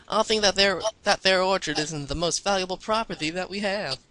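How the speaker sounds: lightly put-on Texan accent. Applejack talks about the orchard, Texan accent. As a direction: read it as a Texan farm pony. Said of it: "I can't read this with a Texan accent".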